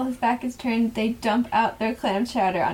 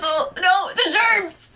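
high, hammed-up cry of horror; mock panicked scream; 7 semitones higher, 3 dB louder than usual. Host imitating teacher fleeing fake vomit, mock panicked scream. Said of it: "he screams and he puts his hands".

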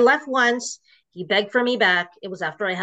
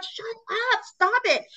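retold outburst. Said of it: "And of course I would be like".

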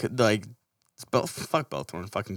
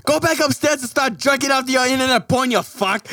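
higher mock angry tirade; movie quote; 8 semitones higher than usual. Quoting a movie rant at a friend, mock angry. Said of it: "Don John reference".

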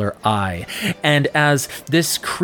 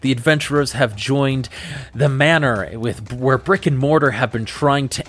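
podcast outro. Acted. Host closes the episode with a cliffhanger teaser.

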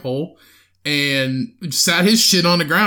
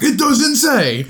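laughing imitation; 8 semitones higher, 4 dB louder, slower than usual. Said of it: "He's like".

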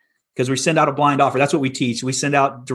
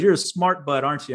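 chuckling. Retold or imitated. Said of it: "And he laughed".

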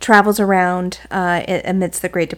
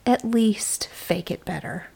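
slow whispered advice, imitating the teacher; teacher quietly warning the student; teacher's whisper; 9 dB quieter, slower than usual. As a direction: whisper it slowly like a knowing teacher.

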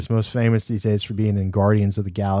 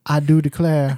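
mock a movie Southern accent; a touch of fake old-timey Southern; 3 semitones higher than usual. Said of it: "never heard anybody down here say".

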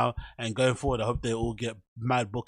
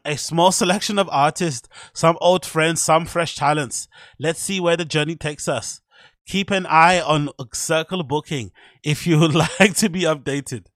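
louder, higher put-on German voice; German accent; 4 semitones higher, 6 dB louder than usual. Finishing a DJ's caption, mock German accent. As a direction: read it like a mock German announcer. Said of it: "my German accent".

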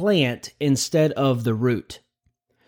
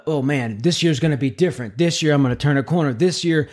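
mock resolution voice; 2 semitones higher than usual. Mimics new year resolution voice.

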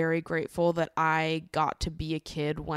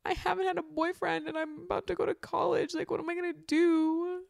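put-on high, fretful teenage voice, much higher; whiny teen; 12 semitones higher than usual. Mimicking her teenage self fretting about college, high and whiny. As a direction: play a panicked fifteen-year-old. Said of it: "fifteen years old being like".

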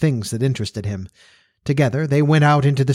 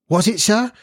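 housekeeper voice; 9 semitones higher than usual. Acted. Housekeeper's sharp question.

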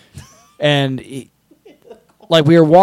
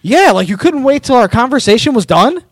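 imitating indignant guy; 9 semitones higher, 4 dB louder than usual. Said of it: "And the other guy's like".

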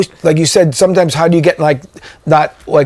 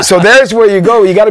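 laughing; 6 semitones higher, 4 dB louder than usual. Real, not acted. Laughing at the story.

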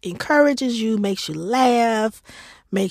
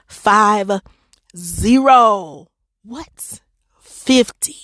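amazed; 6 dB louder, much slower than usual. Real, not acted. Amazed at fifty countries.

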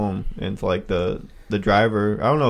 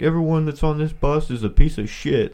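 mock principal rant; 7 semitones higher than usual. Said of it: "the principal came on".

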